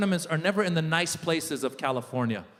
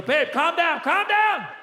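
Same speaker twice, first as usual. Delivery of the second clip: raised, high-pitched calming plea; alarmed husband, climbing higher; urgent pleading; 10 semitones higher, 4 dB louder, slower than usual. Retold or imitated. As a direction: jump in to stop the fight. Husband jumps in to calm wife.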